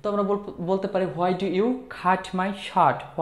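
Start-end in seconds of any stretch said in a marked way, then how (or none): 1.2-3.2 slow model phrase. Shown as a demonstration. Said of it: "আমরা কিন্তু এরকম বলি".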